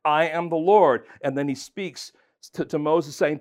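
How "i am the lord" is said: "I am the Lord" louder, weight on "Lord"; emphatic divine declaration. Acted. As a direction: proclaim "Lord" with full force. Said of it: "Then he says in verse six".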